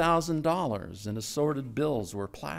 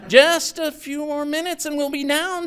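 higher, louder reassurance over the engine; raised voice; 6 dB louder than usual. A narrator's reading. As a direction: call out steady over the roar. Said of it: "Tommy said".

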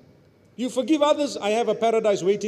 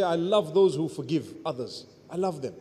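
tender divine voice; 7 semitones lower, 6 dB quieter than usual. Pretend. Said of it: "Imagine for Allah to say".

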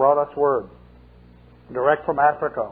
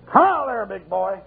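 mock commanding call; 3 semitones higher than usual. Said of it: "give it a yank and say".

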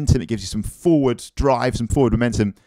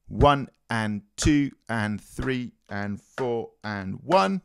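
slow counted demo; 5 dB quieter, much slower than usual. Shown as a demonstration. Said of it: "On the German".

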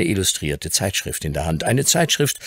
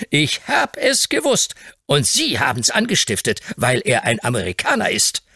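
indignant grocer; 7 semitones higher than usual. Acted. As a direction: accuse them bitterly. Hobbs accuses.

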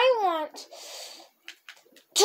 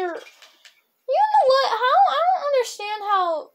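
ranting about Minecraft logic, laughing and shouting; laughing exasperation; 9 semitones higher, 3 dB louder than usual. Real, not acted. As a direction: laugh out the frustration. Laughing rant about game logic.

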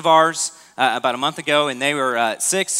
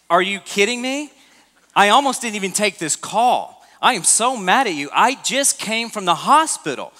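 higher, a touch indignant, retelling the wife; mock angry wife; 5 semitones higher than usual. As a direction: play the fed-up wife, half-serious. Wife angrily retold.

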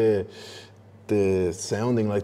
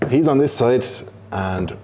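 mock angry voter; 3 semitones higher, 3 dB louder than usual. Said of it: "and they go".

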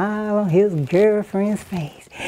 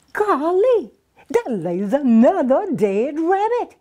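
surprised; 6 semitones higher than usual. Acted. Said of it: "he says".

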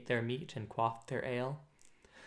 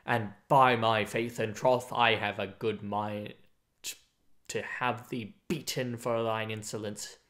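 trembling with anger; 4 semitones lower than usual. Acted. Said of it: "his voice trembled with anger".

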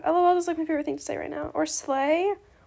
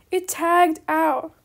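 slow disbelief; 4 dB louder, much slower than usual. Real, not acted.

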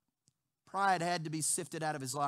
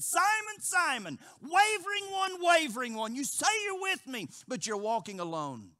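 high, loud pleading cry of a name; urgent loud call; 7 semitones higher, 7 dB louder than usual. Acted. Jesus calling out to Peter, loud urgent plea. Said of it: "Hence Jesus said".

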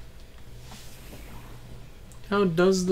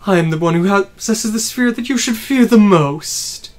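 grandiose villain voice; 9 dB louder than usual. Acted. Voicing villain boss speech.

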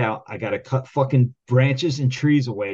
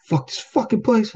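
high, loud furious rant; retold furious outburst at work; going off; 13 semitones higher, 4 dB louder than usual. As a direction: blow up at the whole shop. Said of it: "I'm going off like".

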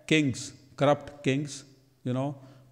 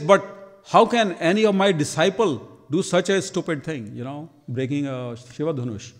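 louder, a retold angry outburst that fades at the end; angry sage's rebuke; 2 semitones higher, 4 dB louder than usual. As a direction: scold the stupid deed, then trail off. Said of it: "he again gets, gets angry".

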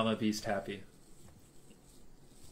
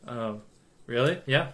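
usual speaking voice

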